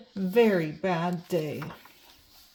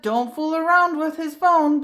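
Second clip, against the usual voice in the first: raised, higher stern dad voice; a father's sharp, louder caution; stern warning; 6 semitones higher, 5 dB louder than usual. Acted. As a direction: warn him off the phone, firmly. Dad warning about his phone.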